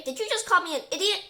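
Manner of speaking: high, loud indignant question; affronted. A narrator's reading. Professor glaring at Terry over being called idiot, indignant. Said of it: "glaring at Terry".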